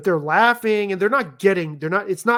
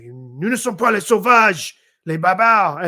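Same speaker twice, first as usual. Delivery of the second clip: mock-fierce scolding in French; hurling French insults; 4 dB louder than usual. Parent teasing a rough French boy, mock-mean and forceful. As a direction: hurl it playfully, voice lifted. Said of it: "I start hurling these, like, French, like, mean things".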